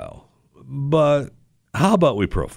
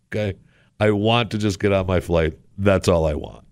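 normal talking voice

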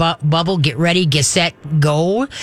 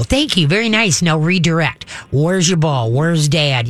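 upbeat praise. Shown as a demonstration. Trainer showing a caller upbeat praise. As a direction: cheer the dog on and redirect. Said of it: "just go".

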